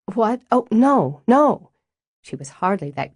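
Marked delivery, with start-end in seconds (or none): 0.1-1.7 startled, rising higher and louder on each no; flustered denial. A narrator's reading. Stella caught raiding the fridge, flustered rising denial. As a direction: caught off guard and rushing to deny it.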